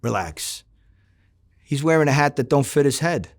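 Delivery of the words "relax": hushed relax. Retold or imitated. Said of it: "he says to me".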